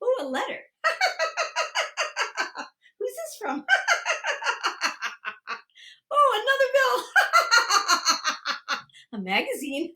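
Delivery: light play hilarity; pretend giggling. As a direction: coo in mock delight, then laugh. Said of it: "we're gonna laugh".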